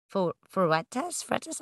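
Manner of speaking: hesitant, questioning try at "Fuertes"; unsure pronunciation. Real, not acted. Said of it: "I don't know if I'm saying her last name right".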